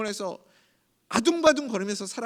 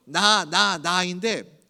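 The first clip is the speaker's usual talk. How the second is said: slow repeated 나; 2 semitones lower, 4 dB louder, much slower than usual. Shown as a demonstration. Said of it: "계속 나".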